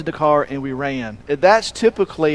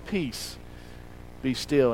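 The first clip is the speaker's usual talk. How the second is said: hushed command; 4 semitones lower, 12 dB quieter, slower than usual. Acted. Jesus calms the storm.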